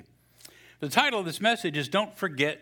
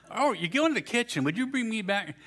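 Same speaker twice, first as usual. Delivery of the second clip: higher, wheedling wife voice; wife's voice; 9 semitones higher than usual. Acted. Pastor voices the wife asking for strawberries. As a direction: put on the nagging wife.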